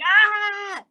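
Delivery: high-pitched yelped scream; mock scream. Telling how Philip fled the spider, imitated scream. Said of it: "He was screaming".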